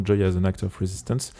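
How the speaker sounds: English title in a French accent. Real, not acted. Radio host citing the band's album, French accent. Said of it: "J'adore prendre un accent français".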